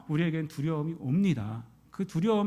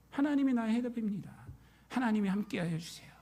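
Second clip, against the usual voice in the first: quiet, softer tender prayer; 4 semitones higher, 7 dB quieter than usual. Acted. Believer praying softly to God, quiet and tender. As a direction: pray it gently, almost inward. Same prayer, now soft.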